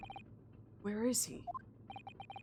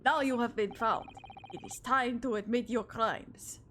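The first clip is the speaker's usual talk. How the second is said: Russian officer voice; 3 semitones higher than usual. Acted. Officer to stowaway he dragged from the wardrobe, mock Russian accent.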